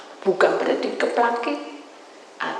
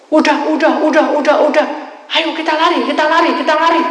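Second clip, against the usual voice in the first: high loud urgent cries; spirits panicking; 8 semitones higher, 12 dB louder than usual. Retold or imitated. Spirits flee in panic from the angel, loud. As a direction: yell to flee, hurrying.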